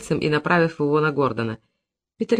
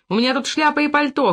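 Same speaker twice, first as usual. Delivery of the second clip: high-pitched protesting cry; calling out; 8 semitones higher than usual. A narrator's reading. Peter being pushed to the doors, crying out. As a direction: cry it out high, without full volume. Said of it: "крикнул Питер".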